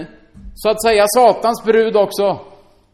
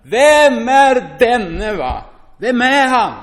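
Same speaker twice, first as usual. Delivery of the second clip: mock cry; 5 semitones higher, 4 dB louder, much slower than usual. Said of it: "vad de ropade".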